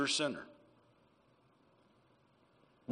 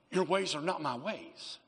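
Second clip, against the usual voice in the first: gently; slower than usual. Retold or imitated. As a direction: ease it out gently, like a reassuring father. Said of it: "And then he just gently says".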